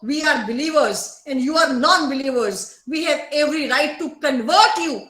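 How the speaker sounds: slow, emphatic mock proclamation; believers' creed, quoted with slow weight; imitating dogmatic believers. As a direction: lay down the dogma, slowly and deliberately. Voices the intolerant believers' claim.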